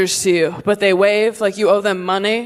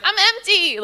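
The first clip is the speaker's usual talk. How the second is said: body voice quoted; 8 semitones higher than usual. Retold or imitated. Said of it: "my body's like".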